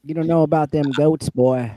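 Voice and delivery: lightly voiced hick scolding a boy; country bumpkin. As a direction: tease like an old farmer. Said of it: "I'm just a country bumpkin".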